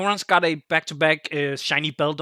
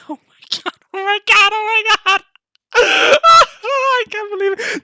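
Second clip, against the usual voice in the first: high, loud builds to laughing shouts; screaming disbelief; 7 dB louder, slower than usual. Real, not acted. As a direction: rebuild the scream of triumph. Reliving the win, screaming again.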